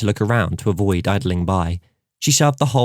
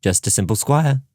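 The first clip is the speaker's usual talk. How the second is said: mock solemn; 3 semitones higher than usual. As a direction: say "simple squire" with put-on gravity. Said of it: "with mock solemnity".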